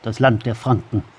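grave, solemn storyteller voice; epic fantasy narrator. A narrator's reading. Epic prologue of a dark tale. (epischer Fantasy-Erzähler)

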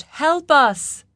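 high-pitched shout for help; calling out. A narrator's reading. Daughter in the pit shouts for the king, calling out. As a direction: cry out urgently to be rescued. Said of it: "Lin called out".

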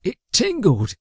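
high-pitched complaining whine; squeaky, sorry-for-himself whine; whining. A narrator's reading. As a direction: whine it like a wounded sidekick. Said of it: "Magnus whined".

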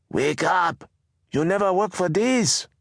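high, sharp scolding wake-up call; a fed-up wife yelling him out of sleep; scolding shout. Acted. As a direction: scold the lazy husband awake. Mama shoving sleeping Baba awake.

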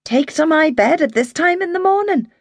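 put-on an outraged older woman at the very idea; scandalized. A narrator's reading. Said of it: "Maggie was scandalized".

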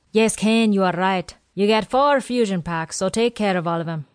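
lightly voiced old quartermaster; a hint of a chatty old supply man. Quartermaster Willie explains supplies to Janae and Ken, lightly voiced old man.

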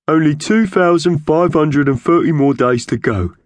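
high, loud, boastful bird voice; proud magpie. A narrator's reading. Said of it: "he said proudly".

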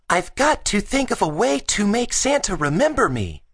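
put-on high, earnest child voice; determined boy Gus. Gus still thinking about Santa, earnest high voice.

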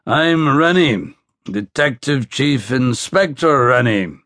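proud Belfast introduction, rank said slowly; slow Belfast accent. Acted. Detective introducing himself to a soldier, slow Belfast accent. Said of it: "He spoke the word slowly".

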